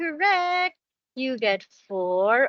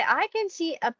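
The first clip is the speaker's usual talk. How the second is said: put-on reading to a toddler; 6 semitones higher than usual. Shown as a demonstration. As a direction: say it clearly like teaching a toddler. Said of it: "Can you say".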